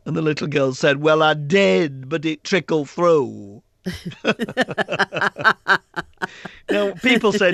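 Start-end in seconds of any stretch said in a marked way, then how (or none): 1.0-3.6 put-on very slow little-girl drawl; a hint of an earnest small child. Little girl's punchline. 3.8-6.6 long, delighted laugh. Real, not acted. Laughing at his own punchline.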